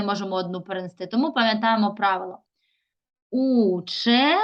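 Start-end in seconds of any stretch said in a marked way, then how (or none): 3.3-4.4 "Учениця" slowly as уче, long pause, ниця; divided for hyphenation. Shown as a demonstration. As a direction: break "Учениця" in two after a drawn-out уче. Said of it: "Таким чином можемо перенести слово".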